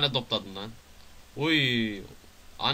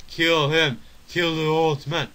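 loud, raised-pitch chant of command; mock battle cry; 5 semitones higher, 6 dB louder, slower than usual. Player urging a kill in the game, mock shouted order. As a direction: egg them on with a shout.

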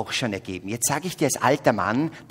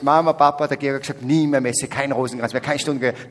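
put-on louder, a touch of tattling kid; mock child report; 6 dB louder than usual. Listener going home misquoting the preacher, mock tattle. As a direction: lightly play a child telling the parents. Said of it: "nach Hause geht und sagt".

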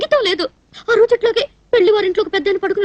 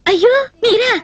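startled; 3 semitones higher, slower than usual. Acted. Startled to see who is visiting.

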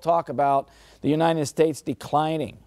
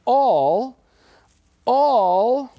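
emphatic preacher shout; 7 semitones higher, 6 dB louder than usual. Real, not acted. Preacher hammering the word all.

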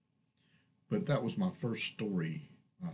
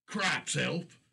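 much higher, loud startled cry; alarmed exclamation; 8 semitones higher, 4 dB louder than usual. Acted. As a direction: shout in sudden alarm. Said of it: "Kurlak exclaimed".

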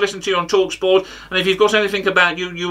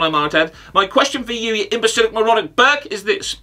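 pompous pundit impression full of ornate insults; Simon Jordan. Comic challenging the pundit with a question, impersonating him. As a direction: pose a question as a put-on pundit. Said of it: "this impression".

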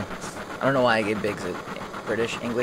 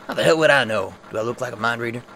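mock gruff retort; 6 dB louder, faster than usual. Gruff Barret snapping back.

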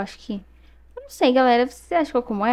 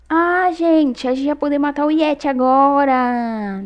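higher and louder regretful whine; frustrated lament; 4 semitones higher, 4 dB louder, slower than usual. Real, not acted. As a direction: mourn the lost chance. Laments missed chance.

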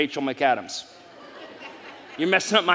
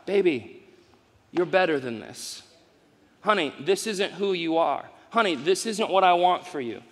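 tender parent. Retold or imitated. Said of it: "That's the tone".

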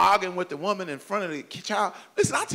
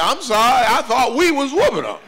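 sheepish apology; 8 semitones higher, 6 dB louder than usual. Retold or imitated.

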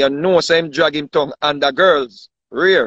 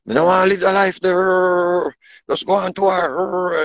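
woman's voice; 3 semitones higher, slower than usual. Retold or imitated. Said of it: "a woman say, "Yo".

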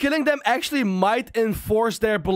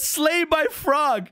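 slow read-out; 4 semitones higher, much slower than usual. Shown as a demonstration. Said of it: "Look, it says".

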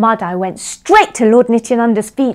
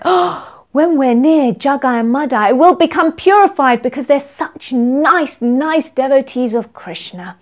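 mock awe; 4 semitones higher than usual. Voicing the townspeople's admiring thoughts.

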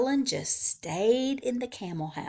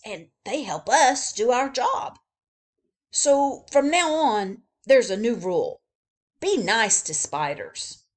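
louder boss announcing a rule; announcing zookeeper; 6 dB louder than usual. Acted. Zookeeper announcing to his men, louder. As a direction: proclaim the new rule to the men. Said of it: "he said".

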